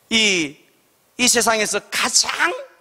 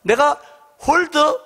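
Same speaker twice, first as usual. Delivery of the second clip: boastful self-promotion; 6 semitones higher than usual. Retold or imitated. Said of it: "라고 자기 피알을 더 심하게".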